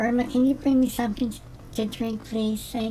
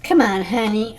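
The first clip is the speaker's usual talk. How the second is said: passive-aggressive; 3 dB louder than usual. Shown as a demonstration. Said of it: "delivered with attitude".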